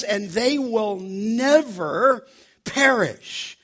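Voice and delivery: slowed right down, each word weighed; slow reverent reading of the verse; slow solemn quote. Shown as a demonstration. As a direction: read it out slow and solemn, like scripture. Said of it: "He says".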